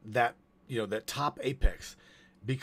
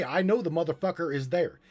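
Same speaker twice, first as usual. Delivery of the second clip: quoted claim; 5 semitones higher, faster than usual. Retold or imitated. Quoting the other speaker's claim.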